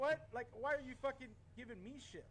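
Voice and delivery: firing back at the cop in disbelief; indignant retort. Retold or imitated. To the cop who blamed the kid, high indignant outburst.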